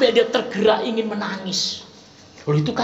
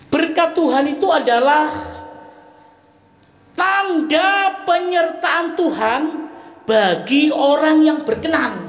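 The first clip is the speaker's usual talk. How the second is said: emphatic proclamation; 5 semitones higher, slower than usual. Real, not acted. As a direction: hammer home each word. Emphatic definition.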